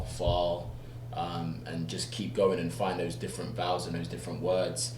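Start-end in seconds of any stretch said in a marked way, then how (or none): 0.0-0.7 "fall" with an open ah; American vowel. Shown as a demonstration. Actor repeating drill words, "fall" with American vowel. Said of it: "I'll just repeat those words".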